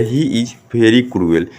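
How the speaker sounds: slow, word-by-word read-out; slow model reading. Shown as a demonstration. Teacher shows pupils how to read the sentence, slow model reading. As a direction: read it slowly for learners to repeat. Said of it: "तो कैसे पढ़िएगा?".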